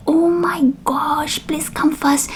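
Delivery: high, breathy hushed begging; whisper-plead, nearly frantic; a hushed, high panicky plea to hurry; panicked plea. Retold or imitated. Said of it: "I was like".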